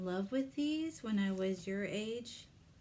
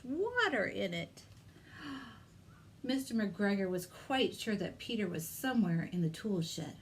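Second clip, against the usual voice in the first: lively read-aloud for little ones; story narration. Acted. Librarian reads Peter Rabbit to children, storytelling voice. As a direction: tell it like a picture-book reading.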